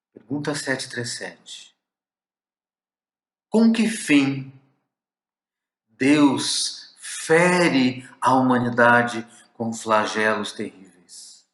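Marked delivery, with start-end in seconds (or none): 3.5-11.5 slow, louder, anguished plea; pained question. Shown as a demonstration. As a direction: cry out the question with slow, raised, aching weight. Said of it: "a entonação, a carga de emoção".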